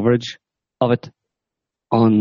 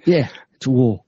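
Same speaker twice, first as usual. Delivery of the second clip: mock cockney jihadi; 6 semitones higher than usual. Mock jihadi bit continues.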